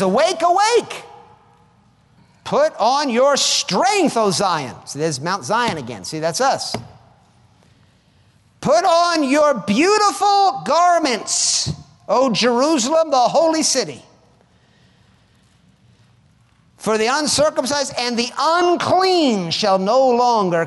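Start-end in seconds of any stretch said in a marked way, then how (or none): 0.0-4.8 high, loud rousing cry with stretched words; loud proclamation. Acted. Proclaiming a prophet's wake-up call. 8.6-20.7 high, loud, drawn-out scripture reading; loud proclamation. Acted. Proclaiming scripture at full force.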